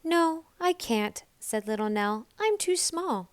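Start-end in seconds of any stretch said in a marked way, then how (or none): 0.0-1.2 put-on lightly higher small girl voice; a small child protesting; little Nell. A narrator's reading. Little Nell tells the animals she can't. 2.4-3.3 put-on lightly higher small girl voice; a small child protesting; little Nell. A narrator's reading. Little Nell tells the animals she can't.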